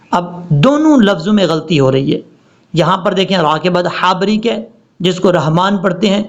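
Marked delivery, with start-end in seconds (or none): 5.3-5.8 short 'رحمان' with plain h; wrong recitation. Shown as a demonstration. Teacher shows the mistake, mistaken recitation. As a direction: say 'رحمان' conversationally, vowel added after h. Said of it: "یہ غلطی ہے".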